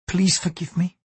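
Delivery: breathless whisper, a touch of shame; whispered apology. Acted. Mariko asks her lover's forgiveness in a whisper.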